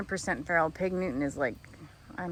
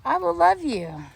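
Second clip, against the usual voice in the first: slow, louder, drawn-out repeat of "I will love you"; drawn-out goat voice; 9 semitones higher, 7 dB louder than usual. Retold or imitated. Farmer voicing her goat, slow and drawn-out. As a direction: stretch "love" out like a begging goat. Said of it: "He's like".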